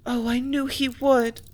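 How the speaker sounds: slow, trembling with held-back tears; grieving that he will go; on the verge of tears. A narrator's reading. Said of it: "her voice showed imminent tears".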